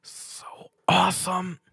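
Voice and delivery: high, slow breathy whisper; soft sigh. A narrator's reading. Stuart sighing softly at Pinkie, whispered. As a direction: sigh the words in awe. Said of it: "sighed softly".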